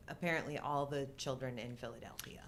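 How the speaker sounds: hushed, breathy aside; conspiratorial whisper. Real, not acted. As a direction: drop to a whisper for the punchline. Deadpan aside about the crowd.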